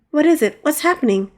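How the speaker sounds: sudden high alarmed cry; startled by the horn, asking fast. Acted.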